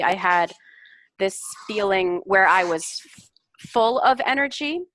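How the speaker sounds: teacher demonstrating the fix; corrected phrasing. Shown as a demonstration. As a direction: say it as the correct model sentence. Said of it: "a better way to say it might be".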